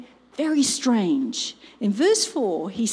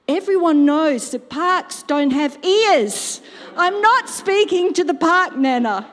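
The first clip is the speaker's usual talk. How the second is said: put-on three-year-old grandson; 5 semitones higher, 5 dB louder than usual. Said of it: "He's three".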